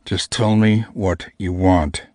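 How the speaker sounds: slow, clenched-jaw grumble; through gritted teeth. Acted. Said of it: "My teeth were grinding".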